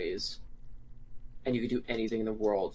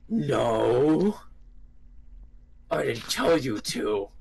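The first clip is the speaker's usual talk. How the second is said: slow, drawn-out mock scolding; scolding dog-mask guy; 4 dB louder, much slower than usual. Retelling a man scolding his barking companion, mock stern. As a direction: imitate a slow, emphatic telling-off. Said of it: "old dog goes".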